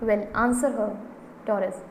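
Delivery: firm, mildly fierce order. Acted. Mother ordering her daughter to answer, mildly fierce. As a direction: demand an answer, moderately forceful. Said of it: "Missus Pearson fiercely".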